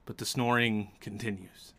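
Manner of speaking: measured suspenseful narration; game master's scene setting. A narrator's reading. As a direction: set a tense scene, pausing between phrases.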